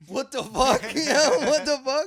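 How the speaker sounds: loud, high disbelieving yell; what the fuck, shouted high; shocked. Real, not acted. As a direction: blurt it out in shock. Shocked reaction to story.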